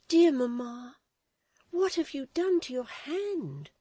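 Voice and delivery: put-on high, loud girl's alarmed question. Florence seeing her mother's hurt hand. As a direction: ask in sudden alarm.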